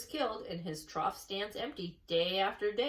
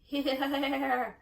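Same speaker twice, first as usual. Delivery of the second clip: sheep answering; 5 semitones higher, 5 dB louder than usual. A narrator's reading. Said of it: "answered the sheep all together".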